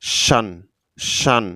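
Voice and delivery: শান as one syllable, between 'shian' and 'shon'; pronunciation model. Shown as a demonstration. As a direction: give শান alone, a short 'shan', then repeat it. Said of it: "উচ্চারণটি ভালো করে লক্ষ্য করুন".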